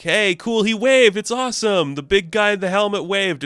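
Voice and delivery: high, thrilled little cheer; giddy mock fan excitement; excited kid. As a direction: marvel like a starstruck kid. Kids thrilled he waved back.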